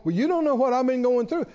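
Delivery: indignant retort. Retold or imitated. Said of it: "get indignant or irritated with me and go".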